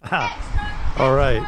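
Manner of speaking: a quick Cockney "ah, all right"; Cockney accent. Acted. Rob greets the show from his bar in Cockney. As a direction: toss it off like a London barman in Cockney. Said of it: "In my best Cockney accent".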